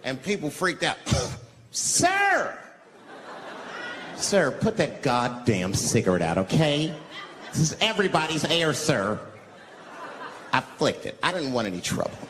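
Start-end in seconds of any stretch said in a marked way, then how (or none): 1.7-9.2 mock-outraged complaint; hammed-up public scolding, drawn out; indignant passenger. Acting outraged passengers on the bus.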